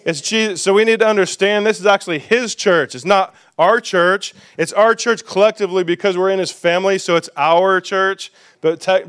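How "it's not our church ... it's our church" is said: "our" leaned on each time; preacher's stress on "our". Real, not acted. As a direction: weigh "our" against "his". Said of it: "contrasting our vs his".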